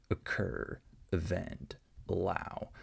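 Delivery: "Occur, event, allow" each with a quick unstressed first vowel; reduced schwa. Shown as a demonstration. Teacher shows different vowels all reduced to schwa in "Occur, event, allow". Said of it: "we can have the schwa sound".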